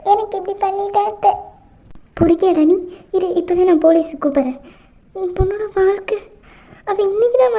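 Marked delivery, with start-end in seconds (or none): 2.2-4.6 a mother's fury at the rogue who wronged her daughter; angry outburst. Acted. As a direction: tear into him and threaten the police. Aunt confronts the groom.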